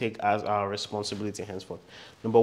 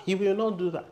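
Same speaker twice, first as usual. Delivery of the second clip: mom refusing; 8 semitones higher than usual. Retold or imitated. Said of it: "My mom said".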